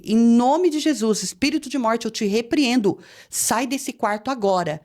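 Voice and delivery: slow, deliberate rebuke; retold prayer command. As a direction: command a spirit to leave, firmly. Ordem de oração contra espírito. (repreensão em oração, pausada e firme)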